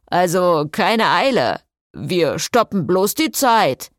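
calling after them. Acted. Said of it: "rief ihnen Jason nach".

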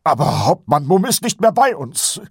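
high, loud desperate protest. A narrator's reading. Sergeant objects that the captain is gone, desperate. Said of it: "erwiderte Kolon verzweifelt".

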